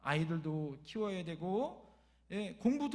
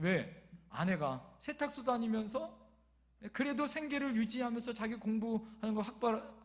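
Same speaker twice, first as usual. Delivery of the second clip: ordinary delivery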